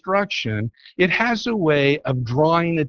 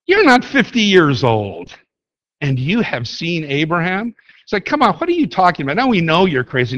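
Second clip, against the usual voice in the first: mock incredulous scoffing; 4 semitones higher than usual. Jews scoffing at Jesus' claim.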